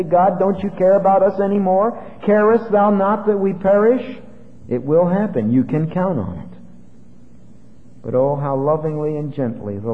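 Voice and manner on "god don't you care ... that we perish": raised, complaining cry to God; mock yelling at God. Preacher voicing a frightened believer, a raised mock yell. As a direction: play the believer yelling that God doesn't care. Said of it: "we'll start yelling again and say".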